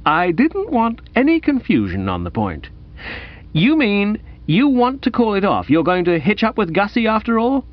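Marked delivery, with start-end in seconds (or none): 3.5-7.6 high, questioning gentleman; eager incredulous young man. Acted. Bertie asking if the engagement is off, eagerly incredulous. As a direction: check the good news, pitched up.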